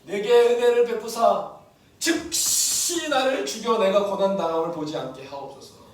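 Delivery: loud, slow desperate plea; anguished plea. Retold or imitated. Moses begging God to let him die, anguished. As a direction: cry out to God to end it.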